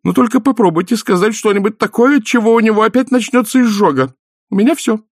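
high, haughty warning voice; stern wife. A narrator's reading. Former valkyrie wife warning Death, high and haughty. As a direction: warn him off with cold superiority. Mrs War warns Death.

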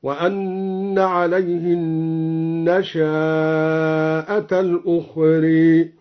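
النشأة with a long drawn vowel on the shin; slow recitation with a drawn-out النشأة; lengthened shin. Shown as a demonstration. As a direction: stretch the shin in النشأة as a connected madd. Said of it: "قرأ بمد الشين هكذا".

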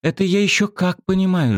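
put-on high, eager girl's agreement; heated agreement from a young girl. A narrator's reading. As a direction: jump in warmly and high. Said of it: "с жаром подхватила девчонка".

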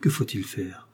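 breathless whispered question. Acted. Rodolphe to Emma in his arms, whispering. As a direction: whisper it close, as if lost.

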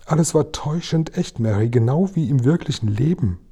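a hint of a distressed queen; queen's voice. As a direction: recount the nightmare vividly to her maid. Queen describes the dream.

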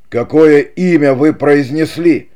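alarmed at hearing a name; frightened. A narrator's reading. Don Pedro, startled by his brother's real name, frightened. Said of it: "испуганно вскочив с места".

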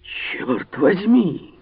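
high, slow stretched exclamation; exclaiming. A narrator's reading. D'Artagnan cries out recognizing the voice. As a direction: cry out in shock. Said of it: "вскричал Д'Артаньян".

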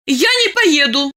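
protest. Acted. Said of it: "запротестовала она".

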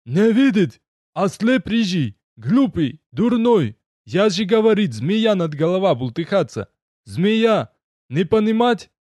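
angry gnome. A narrator's reading. Gnome berates Leni, points at hero.

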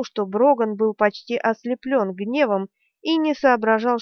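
plain reading voice

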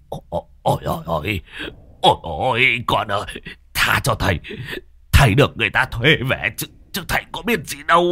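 put-on frightened old man begging, rising to a high fast wail; pained pleading. Bitten master begs the dog ghost, panicky and pained. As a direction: beg for mercy in a panicky rush. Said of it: "Lão đau đớn rú lên".

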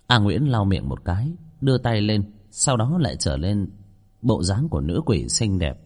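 measured ghost-story reading; story narration. A narrator's reading. Narrator telling listeners of an eerie kitchen, story narration. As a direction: read the chapter out to listeners.

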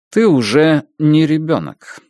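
slow, cold and detached; emotionless. Acted. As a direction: lay it down flatly, no feeling. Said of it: "бесстрастно сказал он". (бесстрастно, медленно и холодно)

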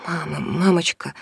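usual speaking voice

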